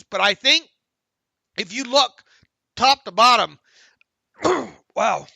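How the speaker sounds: throat catching between words; frog in throat. Real, not acted. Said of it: "I'm all, all choked up here".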